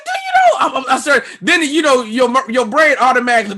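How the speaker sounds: high, loud and worked up; building toward a fight; heated. Retold or imitated. Comic recounting the airport standoff, high heated.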